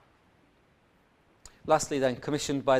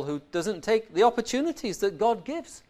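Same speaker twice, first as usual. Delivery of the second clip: Paul's lament; 7 semitones higher than usual. Acted. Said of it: "says Paul".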